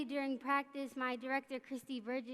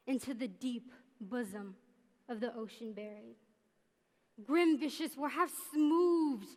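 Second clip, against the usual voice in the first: Richard the Third. Acted. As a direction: deliver it like a brooding stage villain. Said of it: "I will perform a monologue from Richard the Third".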